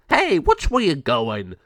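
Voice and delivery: annoyed at a clumsy partner; grumpy gargoyle. Acted. El Jago complains after bump.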